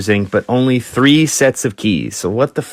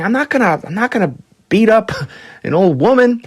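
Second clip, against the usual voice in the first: high, fast mock protest; refusing bodyguard; 10 semitones higher, faster than usual. Bodyguards refusing to fight an old woman, high mock protest. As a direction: refuse it, half amused. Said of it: "looking at each other saying".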